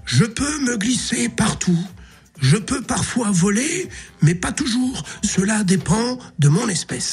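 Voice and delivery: slow, deliberate riddle delivery; slow riddle reading. Acted. Père Fouras reads the riddle slowly to the caller. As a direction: read the riddle slowly, weighing each clue. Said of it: "celle-là, elle est facile aussi".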